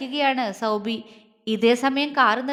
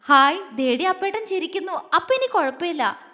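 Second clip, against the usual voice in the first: happy relief; 4 semitones higher than usual. Acted. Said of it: "പൊന്നു സന്തോഷത്തോടെ പറഞ്ഞു".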